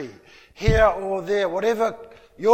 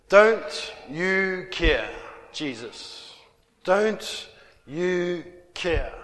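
pleading question; much slower than usual. Acted. Voicing Martha's complaint.

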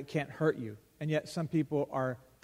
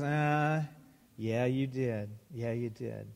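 lower, softer knowing voice of God; knowing reply; 5 semitones lower, 4 dB quieter, slower than usual. Acted. God gently catching Sarah in her lie, low and soft.

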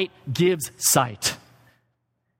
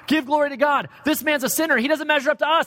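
mocking Pharisees; 10 semitones higher than usual. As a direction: sneer it as the self-righteous Pharisees. Preacher voices the Pharisees' challenge.

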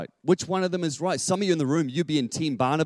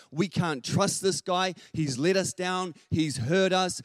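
distrustful Paul; 5 semitones higher, slower than usual. Acted. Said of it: "And Paul is like".

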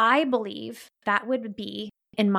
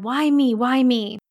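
pleading; 2 semitones higher, 5 dB louder, slower than usual. Retold or imitated. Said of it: "So he's pleading with God".

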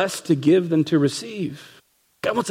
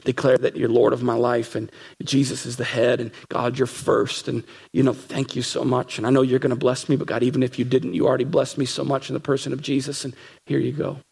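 lower, softer, heartfelt prayer; quiet sincere offering to God; thankful prayer; 5 semitones lower, 3 dB quieter than usual. Retold or imitated. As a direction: pray it gently, giving thanks. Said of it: "God, where I say".

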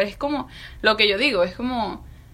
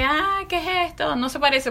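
mock bafflement; 6 semitones higher than usual. The public seeing a new designer's show, mock bafflement. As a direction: imitate puzzled onlookers, pitched up.

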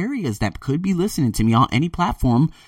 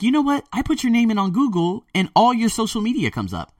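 quoting boss; 11 semitones higher than usual. Retold or imitated. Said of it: "she's like".

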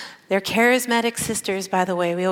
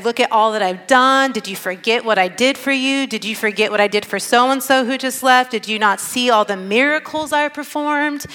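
imagined self-justifying protest, building in pitch; Jesus; 2 semitones higher than usual. Retold or imitated. Preacher imagines Jesus defending himself to the twelve, mildly indignant. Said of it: "would be the time to esteem yourself".

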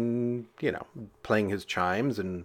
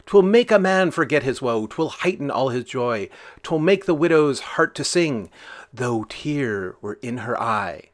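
declaimed folk ballad, louder in places; ballad recitation; 2 semitones higher, 3 dB louder than usual. Acted. Narrator reciting the John Barleycorn ballad, declaimed. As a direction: recite it like an old song.

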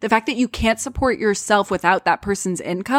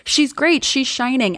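mock gushing; 6 semitones higher, slower than usual. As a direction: gush like a starry-eyed teen. Mimicking their younger gushing selves.

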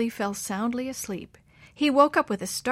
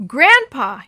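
loud, high frightened yell; 5 semitones higher, 13 dB louder than usual. A narrator's reading. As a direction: shout to wake Grandpa. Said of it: "he yelled again".

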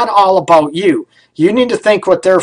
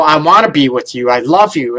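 heartfelt sincere; 4 semitones lower than usual. Shown as a demonstration. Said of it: "You can say it".

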